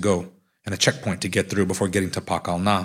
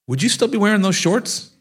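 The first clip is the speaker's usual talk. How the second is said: laughing; 10 semitones higher, 3 dB louder than usual. Real, not acted. Teasing question, laughter follows.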